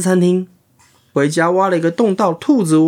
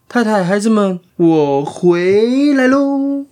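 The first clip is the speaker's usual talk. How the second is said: 开心的鼹鼠爸爸; 5 semitones higher, slower than usual. Acted. 鼹鼠爸爸回家打招呼.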